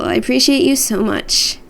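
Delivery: dry, half-sarcastic thanks; mildly sarcastic appreciation. Real, not acted. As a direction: thank them with a teasing edge. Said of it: "That was half sarcastic".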